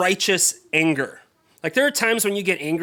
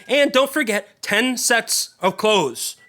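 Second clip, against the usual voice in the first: higher, drawn out slowly and indignantly; retold angry boast; 5 semitones higher, 3 dB louder, slower than usual. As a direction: stretch out each word as if deeply insulted. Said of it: "And so he's just angry".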